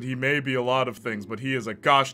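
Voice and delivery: rousing declaration. Acted. Rousing claim building to loud.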